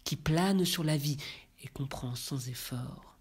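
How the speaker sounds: measured, even-pitched verse reading; poem recitation. Acted. Reader recites Baudelaire's Élévation before commenting, solemn poetry recitation.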